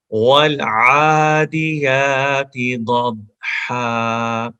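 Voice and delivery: very slow melodic tajweed chant; Quranic recitation. Shown as a demonstration. Teacher reciting the verse for students, slow chant. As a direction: draw out والعادیات in recitation.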